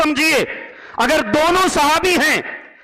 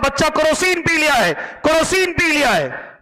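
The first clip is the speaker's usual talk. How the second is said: retold urgent calling out, pitched up; insistent raised voice; 4 semitones higher than usual. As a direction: repeat it insistently in a higher, raised voice. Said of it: "मैं जोर जोर से बोल रहा हूं". (ज़ोर-ज़ोर से, ऊँची आवाज़ में)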